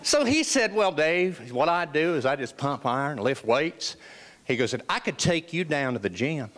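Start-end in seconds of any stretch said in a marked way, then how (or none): 0.7-4.0 lightly imitated Southern friend, lower-pitched; a hint of a Southern trainer's accent; lightly voiced Southern gym buddy. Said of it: "he has this wonderful Southern accent". 4.7-6.5 lightly imitated Southern friend, lower-pitched; a hint of a Southern trainer's accent; lightly voiced Southern gym buddy. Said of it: "he has this wonderful Southern accent".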